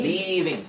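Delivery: লিভিং with a lengthened first vowel; drawn-out vowel. Shown as a demonstration. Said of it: "আরো একটু টান হবে".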